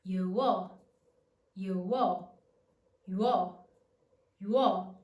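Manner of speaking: "yuo" tightened into one syllable, ywo; triphthong glide. Shown as a demonstration. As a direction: repeat "yuo" as a single firm glide, pausing between. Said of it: "using the technique that I've just shown you".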